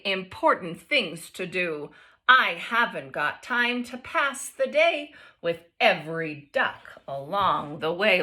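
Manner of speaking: expressive picture-book read-aloud; reading to children. A narrator's reading. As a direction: read it to the class with lively voices.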